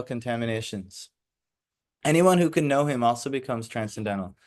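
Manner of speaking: formal read-aloud lecture voice; reading the commentary. Acted. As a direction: read the purport to the class. Reads commentary from the book.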